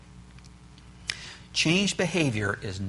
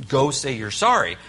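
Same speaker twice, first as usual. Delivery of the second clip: stern order; 6 dB louder than usual. Retold or imitated. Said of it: "I said".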